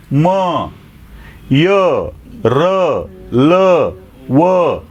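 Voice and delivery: each letter sounded out slowly, one by one; consonants recited. Shown as a demonstration. Teacher sounding out consonants for the class. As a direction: model each consonant at its own place. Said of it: "कधी ओठ चिटकतायत".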